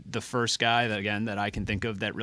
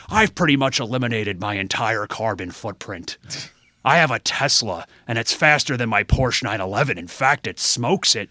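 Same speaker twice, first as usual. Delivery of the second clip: a louder Ventura boast, slowing at the end; Jesse Ventura impression; 5 dB louder than usual. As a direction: brag like Ventura.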